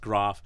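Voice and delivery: Groff said slowly with a rolled gr; Groff, drawn out as a joke; joking pronunciation. Shown as a demonstration. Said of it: "It's pronounced".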